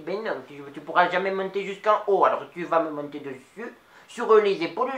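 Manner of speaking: lightly voiced old Nice lady, chatty; a chatty old Niçoise telling a story to the audience; Mado. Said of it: "c'était Mado". (voix légère de vieille Niçoise bavarde)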